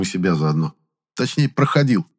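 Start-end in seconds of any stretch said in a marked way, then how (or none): none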